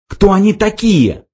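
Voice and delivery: high-pitched incredulous question; astonished. A narrator's reading. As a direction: ask in sheer bewilderment. Ford astonished, eyes popping out.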